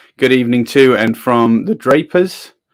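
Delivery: plain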